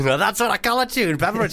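put-on South African accent read; broad South African accent on the quote. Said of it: "that's a good South African accent".

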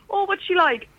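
lightly voiced busybody aside; playing the people who describe her; imitating people. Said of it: "you know when they're like".

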